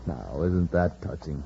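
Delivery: villain mocking the sleeping cadets; sarcastic. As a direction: sneer at their loyalty. Villain mocks the sleeping men.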